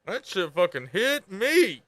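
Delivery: each word drawn out slowly; slow sincere confession; slow emphatic. Real, not acted. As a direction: let it land, slow and heavy. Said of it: "I'm telling you".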